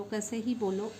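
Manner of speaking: ordinary talk, nothing marked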